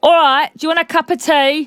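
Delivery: put-on London accent. Demonstrating the accent of a character who grew up around London; London accent. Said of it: "can you give us a London accent?".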